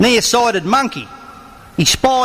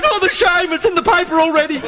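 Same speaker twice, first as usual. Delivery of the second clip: ashamed lion; 10 semitones higher than usual. Acted. Lion laments the newspaper story.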